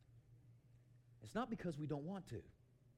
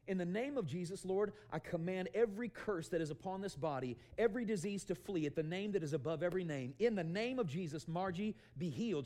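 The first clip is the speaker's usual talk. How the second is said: raised, insistent prayer of command; commanding healing prayer; 4 semitones higher, 4 dB louder than usual. Retold or imitated. Preacher praying for a woman at drive-thru, commanding. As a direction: declare it with authority, driving through each phrase.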